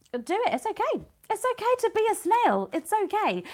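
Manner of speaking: high-pitched, soothing encouragement; gentle reassurance. Real, not acted. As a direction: reassure them in a small, high voice. Reassuring viewers it's fine to go slowly.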